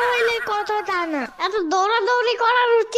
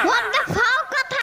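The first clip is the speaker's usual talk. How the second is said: mock outrage; 2 semitones higher, slower than usual. Catchphrase reaction, repeated gag.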